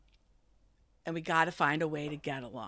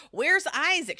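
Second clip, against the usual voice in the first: put-on drunken call; 8 semitones higher, 6 dB louder, slower than usual. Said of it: "clearly hammered".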